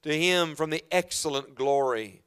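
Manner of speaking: slow, reverent reading of the verses; solemn scripture reading. Acted. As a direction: read it like holy writ, unhurried.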